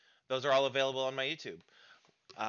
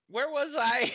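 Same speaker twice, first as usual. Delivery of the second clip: silly high voice; 8 dB louder, slower than usual. Real, not acted. Silly aside after yawn.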